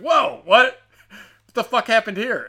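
high, loud mock disbelief; hammed-up viewer shock. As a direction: jolt up in pitch like you can't believe it. Viewer shocked by episode opening.

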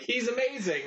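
hammed-up squeal of admiration; mock gushing. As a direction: gush like a starstruck fan, sarcastically. Mocks gushing praise of actor.

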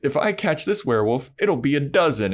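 a hint of a boastful creep; creepy hunter voice. Recapping the hunter sneering at Giles and Buffy, mock boastful.

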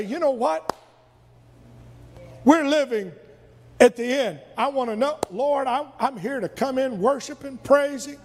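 earnest worshipper ready to receive; eager attitude. Retold or imitated. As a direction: lean in, hungry to hear. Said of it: "Or I can say".

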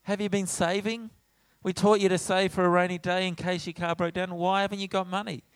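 put-on a dad picking fault with his kid; lightly voiced lecturing father; fatherly lecture. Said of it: "I, in my fatherly role".

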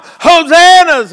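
high, drawn-out shout of praise; crying out. Acted. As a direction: call it out like a rejoicing crowd. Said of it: "they're crying out".

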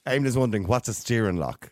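eating while talking; mouth full. Real, not acted. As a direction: talk through a mouthful. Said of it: "I'm eating a biscuit while I'm talking".

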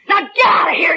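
furious yell to get out; angry shout. Acted. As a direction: order him out, shouting. Throws him out.

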